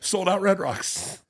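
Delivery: high, slow, drawn-out announcement; drawn-out triumph. Retold or imitated. Comic retells news heard after surgery, drawn-out triumph. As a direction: stretch the good news out, high-pitched.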